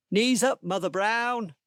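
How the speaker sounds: loud, high Cockney-style holler; shouting. Acted. Animatronic pearly queen lunging at the boy, shouting. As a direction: belt it out like a rowdy pearly queen.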